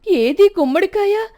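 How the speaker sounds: high, loud furious demand; angry shout. A narrator's reading. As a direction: yell at the daughter-in-law in a rage. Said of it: "కోపంగా పెద్దగా అరవడంతో".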